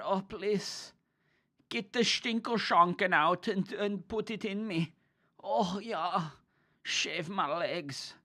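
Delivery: high, breathless-style German porn dub parody; German porn actor. Acted. Streamer imitating In Control's bit, mock German porn actor. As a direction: ham up a German accent, drawn out and high. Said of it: "German porn actor voiceover".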